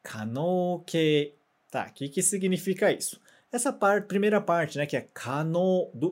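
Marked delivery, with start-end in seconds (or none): 0.0-1.3 可能形 said slowly, syllable by syllable; 可能形 drawn out for the class to repeat; slow read-along. Shown as a demonstration. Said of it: "Mais uma vez".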